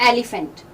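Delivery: "एलिफेंट" said AL-i-fant, with a broad first vowel; children's misreading of "एलिफेंट", middle vowel as ee; wrong "एलिफेंट": AL-ee-fent; mispronounced elephant. Shown as a demonstration. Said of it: "इसको एलिफेंट पढ़ते हैं".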